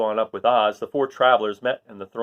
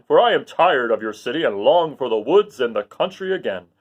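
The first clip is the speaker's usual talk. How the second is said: loud, bold Lion voice; a proud wild beast; 4 semitones higher, 6 dB louder than usual. Acted. Lion vowing to protect Dorothy. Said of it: "declared the Lion".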